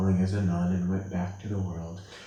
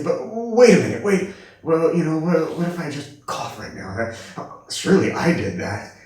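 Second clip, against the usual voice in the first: mock indignant ego, higher and louder; a hint of a whiny objecting ego; the ego protesting; 6 semitones higher, 6 dB louder than usual. Ego insisting it made the cough, mock protest.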